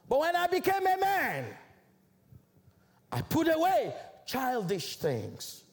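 emphatic scripture quote, pitch leaping on key phrases; measured, rhetorical Bible declamation; declaimed scripture. Real, not acted. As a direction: preach the verse phrase by phrase.

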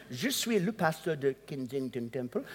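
Kensington Temple said with French vowels, Ken-sing-ton Tem-ple softened; French accent. Retold or imitated. Pastor names his church to a French speaker, French accent. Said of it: "I said in a French accent".

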